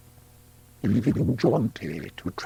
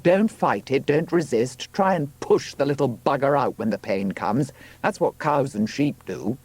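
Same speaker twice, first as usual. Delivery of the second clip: firm coaching, a little raised; Robert urging her on; 4 semitones higher than usual. Acted. Man coaching a woman in labour, urgent. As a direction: urge her through it in a higher, pressed voice.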